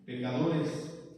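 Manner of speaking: Pecadores drawn out slowly, syllable by syllable; slow emphasis. Shown as a demonstration. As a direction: stretch out "Pecadores" like a preacher. Reads verse again slowly. ("Pecadores" dicho muy despacio)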